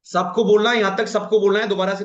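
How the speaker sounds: teacher loudly prompting the class; calling out to class. Real, not acted. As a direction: raise the voice so everyone responds. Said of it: "तेज आवाज में बोलना है".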